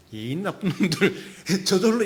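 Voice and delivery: slow, laughing mock grumble; half-laughing mutter at the bad parkers. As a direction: chuckle it out as a slipped curse. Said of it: "저절로 이".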